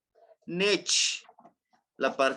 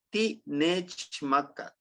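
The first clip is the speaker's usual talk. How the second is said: slow model phrase; much slower than usual. Shown as a demonstration. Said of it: "teacher models the phrase".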